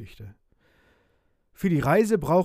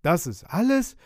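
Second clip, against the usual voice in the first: disappointed, raised question; higher, louder disgruntled query; grumbling; 6 semitones higher, 5 dB louder than usual. A narrator's reading. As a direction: grumble in disbelief at the meagre find. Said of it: "murrte der Maat".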